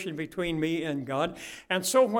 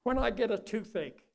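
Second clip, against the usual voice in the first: sincere prayer. Acted. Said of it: "we need to cry out to God".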